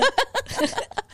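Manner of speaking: gargalhada alta e aguda; risada madura. Real, not acted. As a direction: ri alto de propósito. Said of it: "Ó a risada madura". (risada alta exibida como madura)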